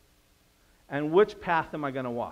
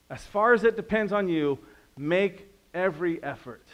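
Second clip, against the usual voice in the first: louder, higher urging of the verse; pleading emphasis; 4 semitones higher, 4 dB louder than usual. Real, not acted. Preacher urging the congregation to make every effort, louder. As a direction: press the verse home to the listeners. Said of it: "preacher urging the key verse".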